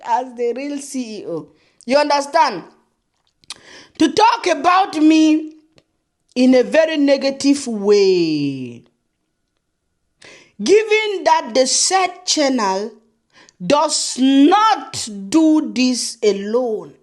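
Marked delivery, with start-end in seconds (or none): 4.0-8.8 slow, drawn-out reading of the letter; mock letter reading. Reading the rival's letter slowly and mocking. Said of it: "my own letter". 10.6-17.0 very slow, drawn-out letter phrasing; slow mock reading. Reading the rival's letter to viewers, slow and mocking. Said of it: "show you guys my own letter".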